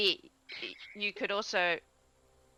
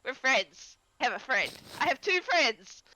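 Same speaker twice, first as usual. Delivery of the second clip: excited little creature; 3 semitones higher than usual. Acted.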